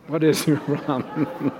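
repeating the snap but laughing through it; can't keep a straight face on the snap; mock snap breaking into a laugh. Pastor retelling a snap at his spouse, laughing. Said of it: "and you say".

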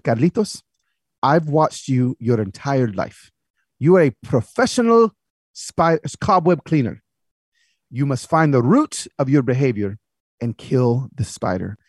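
put-on slow, solemn accented dad voice; wise father. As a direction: give your son a weighty verdict, word by word.

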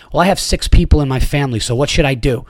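snotty attitude. Retold or imitated. Mother snaps at the dad over a seat, snotty. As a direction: sneer it like an entitled parent. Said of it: "out loud with an attitude voice".

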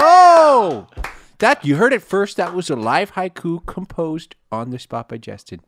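loud, high announcer hype; excited announcer. Real, not acted. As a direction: present it like a host. Hyping a live haiku.

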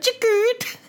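imitated phone camera click; camera shutter noise. Podcaster imitating the iPhone's shutter sound. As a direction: make a quick shutter-click sound with the mouth.

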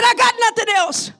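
acted desperate plea, pitched high; high, hammed-up confession of despair; breaking down crying. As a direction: cry it out like the broken recruit. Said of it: "breaks down and starts crying".

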